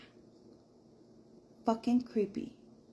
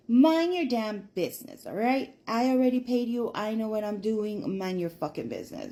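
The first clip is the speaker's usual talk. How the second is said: retold angry retort; 4 dB louder than usual. Maria snaps back at her.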